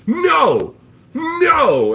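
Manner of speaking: very high, loud mock cry of no; mock whiny denial. Streamer mocks the flipper's denial with a high wail. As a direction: wail it like a tantrum.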